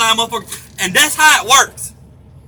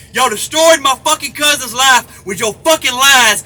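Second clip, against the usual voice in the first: furious shout; 3 dB louder than usual. Real, not acted. Furious rant climax.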